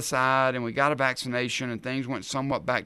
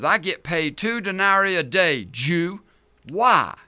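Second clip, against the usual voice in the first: gruff soldier reply; 6 semitones higher, 6 dB louder than usual. Acted. Soldier answers the rabbi.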